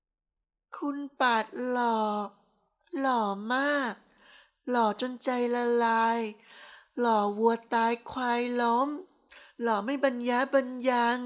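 dreamy tipsy praise, drawn out; tipsy gushing. A narrator's reading. Tipsy wife praises his looks. (ชมแบบเมาๆ เสียงสูงหวานยืดยาด)

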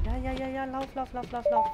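frantic "lauf, lauf" urging; being chased. Real, not acted. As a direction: hurry the character along, breathless. Urging character to run in game.

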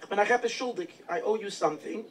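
"I owe you something" drawn out slowly, each word weighed; slow emphatic repeat. Retold or imitated. The Alter Rebbe repeats his debt to the town, slow and emphatic. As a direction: lean into "owe", slowing right down.

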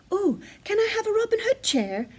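high, pleading little bear; begging. A narrator's reading. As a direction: beg like a small child. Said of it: "begged Baby Bear".

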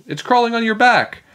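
high, squealing warning; alarmed shout. A narrator's reading. Andrea warning Emily about the cockroach, alarmed shout. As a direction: warn her in rising panic. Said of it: "Andrea shouted".

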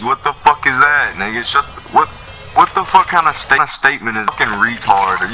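angry. Real, not acted. Angry outburst at player.

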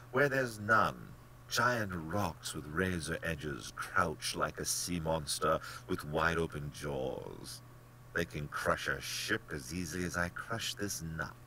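slow, relishing description; a hint of slow menace; lightly voiced menacing general. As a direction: savour the danger as the general.

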